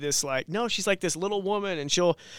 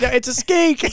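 louder mock Michigan skink; Michigan accent; 7 semitones higher, 6 dB louder than usual. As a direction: imitate her Michigan skink. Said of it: "Did my Michigan accent just come out?".

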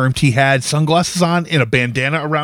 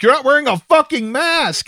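retold angry call-out; 11 semitones higher than usual. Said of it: "And I was like".

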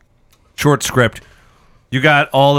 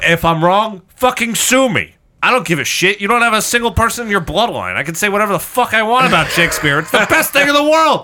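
heated rant; 6 semitones higher than usual. Real, not acted. Heated rant about Shakespeare.

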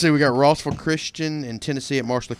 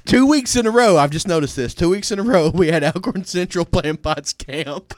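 excited; 5 semitones higher, 5 dB louder than usual. Real, not acted. Excited rant about schedule.

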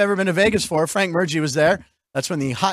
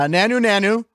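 Mork greeting; 2 semitones higher than usual. Retold or imitated. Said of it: "That Nanu Nanu is what Mork would say".

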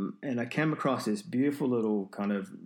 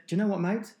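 friendly farmer; 9 semitones higher, 4 dB louder, faster than usual. Retold or imitated. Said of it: "dropped his gun down and said".

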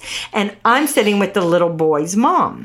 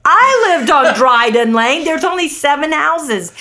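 louder, higher retelling of astonishment; amazed exclamation; 6 semitones higher, 5 dB louder than usual. Retold or imitated. Woman retells learning of the shared street, amazed exclamation. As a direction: blurt it out in disbelief.

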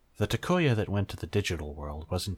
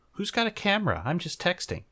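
feigned innocence; 11 semitones higher than usual. Acted. Koshiro to Yamato, faking innocence in a high voice. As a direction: play dumb, way up high. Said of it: "Koshiro feigned innocent".

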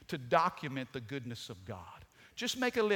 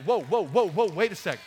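excited whoa; 8 dB louder, faster than usual. Acted. Preacher's excited interjection.

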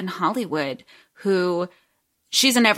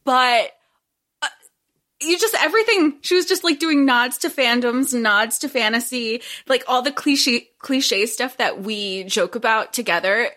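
echoey. Real, not acted. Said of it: "I'm sorry if I sound echoey".

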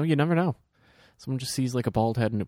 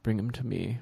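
Werner Herzog impression; 5 dB quieter than usual. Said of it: "Werner Herzog going".

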